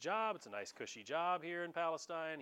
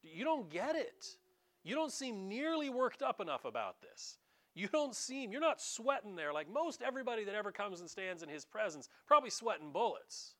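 Pilate's thoughts; 5 semitones higher than usual. Retold or imitated. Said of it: "what's going through Pilate's head".

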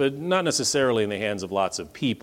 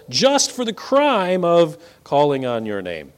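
rising, urgent objection to God, pitched higher; pleading Ananias; 5 semitones higher than usual. Acted. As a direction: plead your case, voice climbing. Preacher voicing Ananias pleading.

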